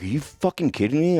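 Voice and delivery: incredulous. Retold or imitated. Coworker reacts in disbelief.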